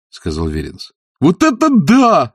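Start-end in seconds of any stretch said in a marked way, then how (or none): 1.2-2.3 slow, high, drawn-out admiration; boy marvels at the fighting pictures; admiring. A narrator's reading. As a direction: savour it with awe. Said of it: "восхищался Шон".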